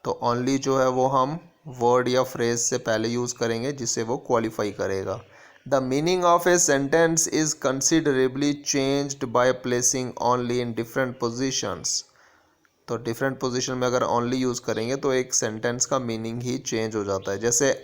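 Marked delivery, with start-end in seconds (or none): 5.6-11.9 very slow, measured reading of a grammar rule. Shown as a demonstration. Teacher dictating a grammar rule to students, very slow. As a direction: dictate the rule slowly so students can copy it.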